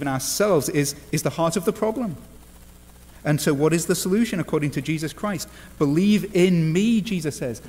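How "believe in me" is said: slow, higher-pitched declaration; emphatic scripture quote. Retold or imitated. Preacher gives Jesus's answer to the congregation, emphatic quote. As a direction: proclaim it slowly, pitched up.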